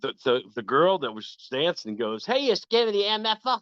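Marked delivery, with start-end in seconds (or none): 2.2-3.6 high, brash Jersey call-out; New Jersey accent. Retold or imitated. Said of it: "really heavy New York, I mean, New Jersey accent".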